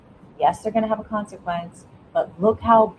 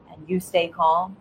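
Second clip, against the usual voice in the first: calm tone. Shown as a demonstration. Parent staying calm with a yelling kid, slow gentle voice. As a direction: say it slowly and gently, calm and steady. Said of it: "and you use this tone of voice".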